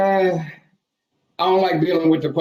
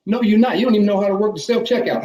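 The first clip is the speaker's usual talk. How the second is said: mock rant; 5 semitones higher, faster than usual. Ranting at customers, higher and faster.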